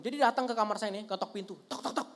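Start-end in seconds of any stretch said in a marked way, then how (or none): 1.6-2.1 harsh mom. Retold or imitated. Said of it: "mama saya ini ngomongnya suka kasar, nadanya tinggi".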